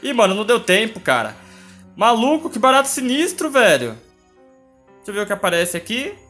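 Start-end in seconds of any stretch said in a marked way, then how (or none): 0.0-4.0 loud high rattled outcry; shaken exclamation. Real, not acted. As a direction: react loudly after the scare. Just died to the monster.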